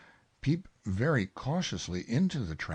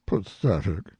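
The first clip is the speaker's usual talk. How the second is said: lightly voiced gloomy donkey; louder, dismal pronouncement; Eeyore; 6 dB louder than usual. A narrator's reading. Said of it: "he said".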